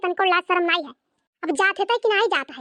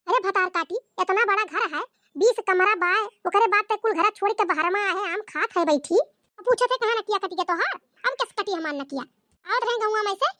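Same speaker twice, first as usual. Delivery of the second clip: scolding mother-in-law. Acted. Mother-in-law scolding her daughter-in-law, lightly voiced. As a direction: play the nagging village saas.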